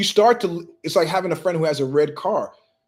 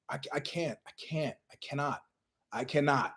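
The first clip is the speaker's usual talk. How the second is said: barely voiced, much softer, drained whimper; whiny weak complaint; 2 semitones lower, 12 dB quieter than usual. Griping coworker with headache, feeble much softer whimper. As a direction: fade out like you have nothing left. Imitating someone with a headache, very soft.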